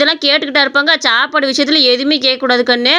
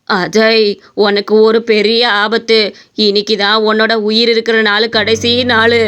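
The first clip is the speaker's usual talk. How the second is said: ominous astrologer; 3 semitones lower than usual. Acted. Astrologer foretells death.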